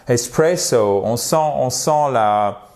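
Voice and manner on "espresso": ESPRESSO with Italian-American lilt; Italian-American accent. Shown as a demonstration. Teacher shows the intonation, Italian-American accent. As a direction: lean on PRESS, Italian-American style. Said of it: "italien-américain".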